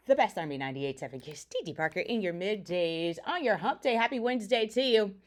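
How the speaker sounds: fast, punchy radio host read; radio station ID. Acted. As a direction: sell the station ident.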